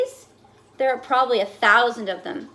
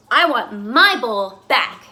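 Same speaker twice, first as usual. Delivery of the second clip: loud, slow furious yell; screamed; 6 dB louder, slower than usual. Acted. Fish screaming at his crowded bowlmates. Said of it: "I screamed".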